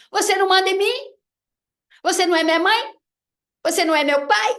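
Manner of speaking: high, loud and fast, cheeky challenge; defiant kid talking back. Retold or imitated. Boy defying his teacher, high, loud, cheeky defiance. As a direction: sass the teacher like a rebellious child.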